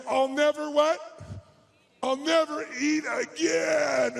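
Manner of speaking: slow, drawn-out groaning vow; mock stuffed vow. Stuffed guest swearing off food, slow mock groan. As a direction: ham up the overfed promise.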